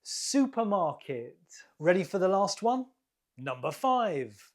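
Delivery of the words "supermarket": SUpermarket, stressed at the start of "Supermarket"; stress on first syllable. Shown as a demonstration. Teacher confirming the answer, "Supermarket" stressed on the first syllable. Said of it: "The first syllable is stressed".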